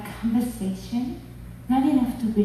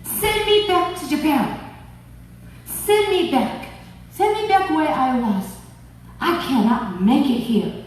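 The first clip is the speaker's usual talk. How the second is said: angry yell; 3 semitones higher than usual. Retold or imitated. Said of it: "I yelled at him".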